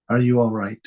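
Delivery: each word placed with care, sincere; very carefully. Shown as a demonstration. Teacher asks the room gently and carefully. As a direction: ask it as if you truly want the answer. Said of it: "I wanted to ask you all that very carefully".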